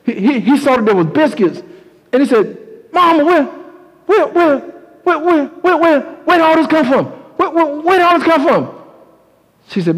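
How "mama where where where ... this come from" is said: put-on much higher, stammering child's delight; a little boy bursting with amazement at the food; excited boy. Boy amazed by sudden breakfast.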